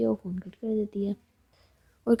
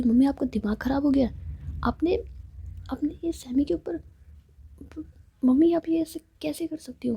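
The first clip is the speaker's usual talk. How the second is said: a higher-pitched shocked protest at mother; half-acted upset, voice climbing in disbelief; 5 semitones higher than usual. Daughter protesting to her mother, shocked and pitched up.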